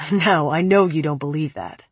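a hint of a low, cold man. Preppy's cold voice.

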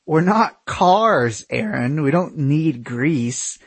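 slow, breathy through laughter; laughing. Acted. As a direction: squeeze it out between laughs. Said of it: "I managed to say between breaths".

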